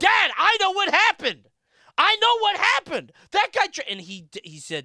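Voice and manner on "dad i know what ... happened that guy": put-on panicked scream, higher and louder. Retelling telling his dad what happened while panicking: imitating his own panicked screaming. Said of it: "panicking, right? I'm like Courage the Cowardly Dog. I'm, like, screaming".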